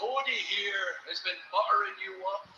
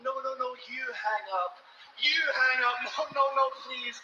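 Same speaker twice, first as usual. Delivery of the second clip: giggly late night call; 4 semitones higher than usual. Retold or imitated. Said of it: "That's what you both sound like to me".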